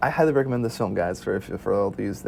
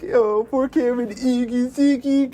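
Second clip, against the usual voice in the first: put-on higher, teasing singsong at a kid brother; mock teasing; 12 semitones higher, 3 dB louder, slower than usual. Older brothers mocking their crying little brother, teasing singsong. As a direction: tease him like a bratty older brother. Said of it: "We were like".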